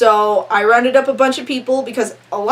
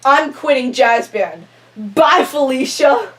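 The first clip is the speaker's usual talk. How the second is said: 1 sassy quitting. Retold or imitated. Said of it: "So then I go".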